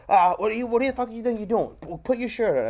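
mock the ranger's outrage; angry ranger. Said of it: "He goes".

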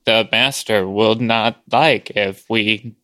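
slow, drawn-out halting servant; Torgo voice. Retold or imitated. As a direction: drag each word out slowly. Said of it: "that's how that guy talks".

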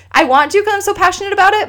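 excited, quick and high; eager, excited. Real, not acted. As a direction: rush it out with eagerness. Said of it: "I'm too emotional".

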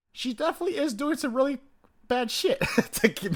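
playfully voicing a suspicion; suspicious inner voice. Acting out own suspicious thought.

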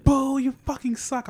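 high, loud, slow jeering heckle; mock heckle. Nina heckling the comic, a high, loud mock boo. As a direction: boo him off the stage. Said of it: "She was like".

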